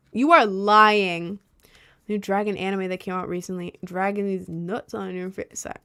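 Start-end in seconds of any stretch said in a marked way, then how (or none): 0.1-1.4 accusing. Real, not acted. Calling out an obvious lie.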